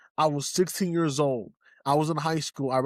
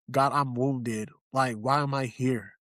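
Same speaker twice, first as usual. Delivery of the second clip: weary prayer; 3 semitones lower, slower than usual. Retold or imitated. Retold weary prayer to God.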